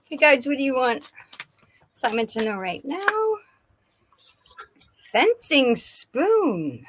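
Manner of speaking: ordinary delivery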